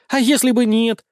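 usual speaking voice

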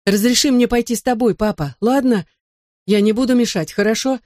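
put-on pleading child. A narrator's reading. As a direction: plead with dad to let you come. Boy begs father to take him.

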